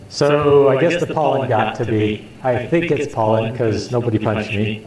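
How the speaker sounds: talking with toilet paper stuffed up one nostril; nose plugged with tissue, a bit blocked. Real, not acted. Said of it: "I'll be lecturing with toilet paper hanging out of my nose".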